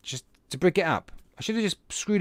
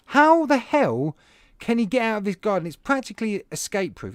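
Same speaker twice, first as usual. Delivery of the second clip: exasperated disbelief; 4 semitones higher than usual. Retold or imitated. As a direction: stretch out how the hell in disbelief. Retold panicked thought, rabbit missing.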